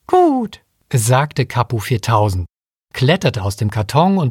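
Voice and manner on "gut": much higher piping monkey voice; squeaky robot monkey. Acted. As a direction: chirp it like a tiny robot monkey.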